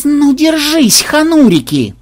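indignant warning of payback; seething threat. A narrator's reading. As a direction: threaten them, worked up. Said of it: "зашипел программист".

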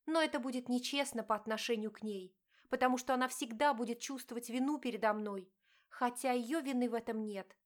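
wife confronting her cheating husband, pained; hurt wife. Acted. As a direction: plead and accuse at once. Diana explains to husband.

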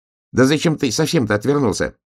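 high, exasperated little hedgehog; high-pitched indignant question. Acted. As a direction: pipe your annoyed question up high. Hedgehog exasperated with bear cub.

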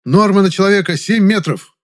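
loud high-pitched yelp; shrieking. A narrator's reading. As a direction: squeal it out in a panic. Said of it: "взвизгнул вдруг Жасминов".

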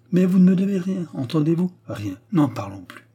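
high, loud insistence, then dropping to close the subject; cantankerous anger. A narrator's reading. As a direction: insist crossly, then cut it short. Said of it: "l'humeur rageuse du bonhomme". (avec une humeur rageuse)

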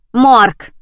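loud curt bark into the phone; barked answer. A narrator's reading. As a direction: bark the word at the caller. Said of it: "рявкнула невидимая тётка".

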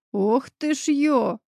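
restrained grumble. A narrator's reading. Neighbour grumbles at his broken lock, slow restrained mutter. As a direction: mutter it under your breath. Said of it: "раздалось сдержанное ворчание соседа".

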